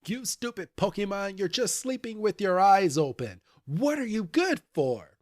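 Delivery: mock angry yell. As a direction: act out an exasperated telling-off at normal volume. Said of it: "she full-blown yells at him".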